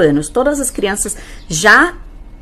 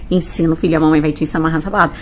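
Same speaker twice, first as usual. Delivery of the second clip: reassuring mother; 5 semitones lower, much faster than usual. Acted. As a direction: answer the child calmly, voice dropped. Mother answers the pleading child. (mãe tranquila respondendo à filha)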